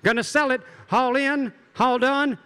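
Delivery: rapid rhythmic auction chant; auctioneer. Acted. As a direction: rattle off bids like an auctioneer. Auctioneer calling bids again.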